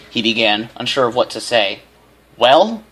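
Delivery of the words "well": sharp, high, louder "Well?"; stern mother demanding. A narrator's reading. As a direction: press hard for an answer. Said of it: "she demanded".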